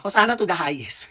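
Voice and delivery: laughing through the words. Real, not acted. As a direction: chuckle the phrase out. Joking about her name.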